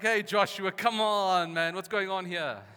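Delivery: loud, high-pitched griping; mock moaning. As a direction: complain to the leader in hammed-up exasperation. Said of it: "They moan".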